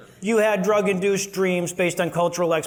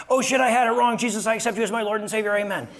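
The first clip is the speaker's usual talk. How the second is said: mock deathbed conversion; 3 semitones higher, faster than usual. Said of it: "our last thought is gonna be".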